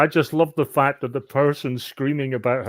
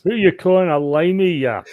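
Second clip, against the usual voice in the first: loud, high comeback; indignant retort; 6 semitones higher, 6 dB louder than usual. Acted. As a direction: fire it back, affronted. Player retorts to the acted insult.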